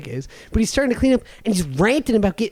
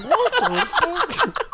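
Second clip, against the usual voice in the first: drawn out slowly, pitched way up through a laugh; stunned disbelief; much slower than usual. Retold or imitated. Retelling hearing his friend got pissed on, laughing disbelief. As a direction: replay your own shocked reaction, laughing.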